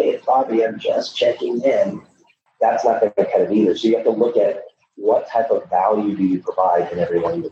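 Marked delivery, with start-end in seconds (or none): 0.0-2.0 whiny voice. Retold or imitated. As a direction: whine it like a needy rep. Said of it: "I get my whiny voice".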